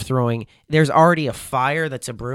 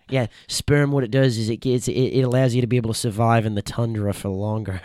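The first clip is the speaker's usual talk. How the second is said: imitating a survival host in an Australian accent. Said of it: "That was a good accent".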